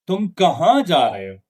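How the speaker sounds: WH-question with a steady fall after kahan; falling question intonation. Shown as a demonstration. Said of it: "falling intonation".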